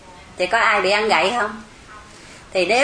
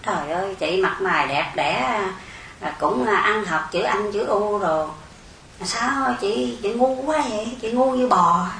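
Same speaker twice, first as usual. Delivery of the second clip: mắng chửi nhẹ; 4 dB quieter than usual. Retold or imitated. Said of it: "một người nào mắng chửi mình nói".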